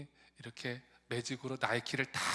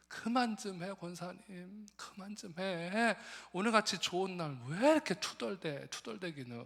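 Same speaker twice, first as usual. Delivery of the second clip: exasperated hushing; 5 semitones higher than usual. Retold or imitated. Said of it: "사람들이".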